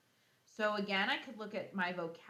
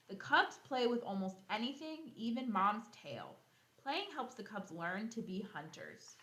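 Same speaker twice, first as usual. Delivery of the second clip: bright, lively read-aloud voice; storybook reading for kids; reading to children; 3 dB louder than usual. Acted. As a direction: read the book out to the class with energy. Reading the lion book aloud.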